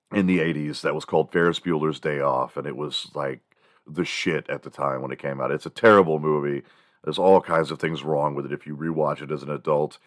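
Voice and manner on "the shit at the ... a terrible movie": usual speaking voice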